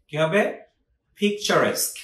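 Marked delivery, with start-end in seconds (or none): 1.2-2.0 "পিকচারেস্ক" with a clear "-esk" ending; correct pronunciation. Shown as a demonstration. Teacher repeating for learners to remember, careful "পিকচারেস্ক" ending in "-esk". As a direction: model "পিকচারেস্ক" as pik-cha-resk. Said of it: "মনে রাখবেন এভাবে".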